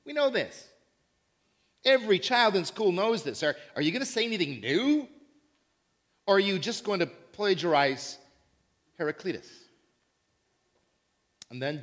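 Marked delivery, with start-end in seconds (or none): 0.1-9.5 impatient Greek listener. Retold or imitated. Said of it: "Greeks might be saying".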